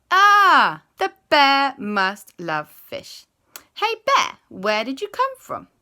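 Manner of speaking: high, loud chorus of discovery; excited realisation. A narrator's reading. Everyone realises bears love fish, excited. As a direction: burst out, then call brightly to the bear.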